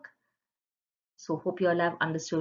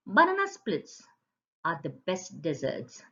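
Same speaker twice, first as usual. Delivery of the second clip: enthusiastic exclamation. Shown as a demonstration. Teacher to children, showing a delighted exclamatory sentence. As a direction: gush about dessert. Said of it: "expresses strong emotion or surprise".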